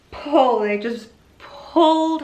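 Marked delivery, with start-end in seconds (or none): 0.1-0.6 mock pulling call. Retold delivery moment.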